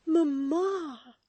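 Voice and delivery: high, loud distressed cry. Acted. Florence seeing her mother weep. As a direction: call out to her weeping mother.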